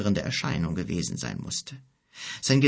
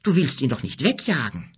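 higher-pitched dismayed question; alarmed; 5 semitones higher, 3 dB louder than usual. A narrator's reading. Son fears father will chase guest away, alarmed. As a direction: plead in startled disbelief. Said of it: "rief Ado erschrocken".

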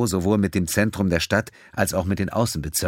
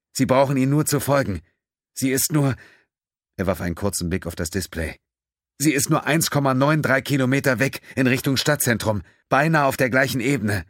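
raised, earnest pleading voice; lightly voiced pleading Terrell; 5 semitones higher than usual. Terrell begs Pennington to go find her, pleading. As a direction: urge him gently but insistently.

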